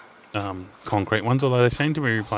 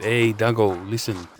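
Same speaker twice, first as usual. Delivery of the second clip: put-on Cobra's Greek accent; 3 dB louder, slower than usual. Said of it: "that's how he'd say it".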